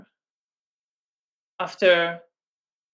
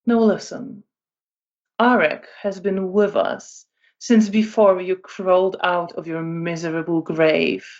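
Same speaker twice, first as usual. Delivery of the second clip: very calm. Acted. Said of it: "says very calmly".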